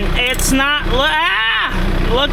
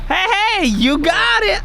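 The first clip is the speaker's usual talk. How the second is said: raised, higher call over noise; shouting over machinery; 6 semitones higher than usual. Real, not acted. Calling out over running compressor.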